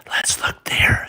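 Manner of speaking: soft breathy whisper of Let's look there. Acted. Bianca whispering to Bernard by the closet, hushed whisper. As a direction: hush it so nobody wakes. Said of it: "she whispered".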